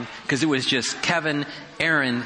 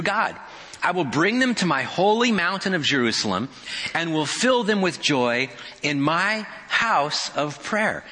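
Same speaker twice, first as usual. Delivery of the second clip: voice of God; 5 semitones higher than usual. Acted. Voicing God's promise.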